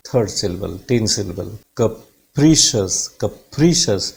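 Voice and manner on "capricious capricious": "कैप्रिशियस" as kuh-PRISH-us, peaking on PRI, then falling; stress on PRI. Shown as a demonstration. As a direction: hit PRI in "कैप्रिशियस" and fall away. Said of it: "पा sound पे बिल्कुल एकदम height". ("कैप्रिशियस" में "प्रि" पर ज़ोर, फिर गिरावट)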